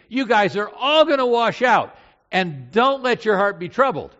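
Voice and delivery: loud, high preaching delivery; emphatic warning. Acted. Jesus warning his disciples, loud and emphatic.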